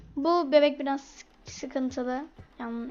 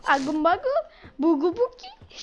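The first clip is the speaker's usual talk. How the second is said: put-on baby babble. Baby talk to game baby.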